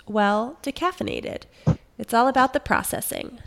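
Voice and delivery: a hint of wine critic; lightly voiced wine tasting note. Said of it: "I'll put on my wine voice".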